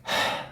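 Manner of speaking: heavy, breathed-out sigh; weary sigh. Retold or imitated. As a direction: re-enact sighing out a tired soul. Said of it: "한숨만 쉬다 올 때도". (한숨 쉬는 흉내)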